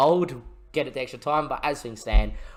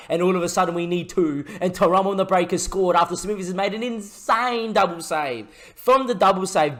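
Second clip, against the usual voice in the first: higher, louder, thrilled recap of the goal; buzzing commentary; excited; 4 semitones higher, 5 dB louder than usual. Real, not acted. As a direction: talk fast and lit up after a goal.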